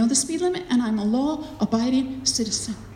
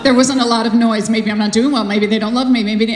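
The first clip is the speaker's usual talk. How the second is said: insecure pastor; 4 semitones lower, 4 dB louder than usual. Retold or imitated. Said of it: "the pastor suddenly gets insecure".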